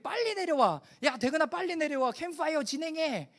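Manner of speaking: high-pitched imitation of a youth leader calling; imitated summoning call. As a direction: call him down urgently, as a retold quote. Acts evangelist calling him down.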